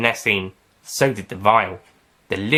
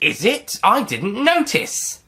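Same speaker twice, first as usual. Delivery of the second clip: sarcastic; 11 semitones higher, slower than usual. Acted. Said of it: "the doctor said sarcastically".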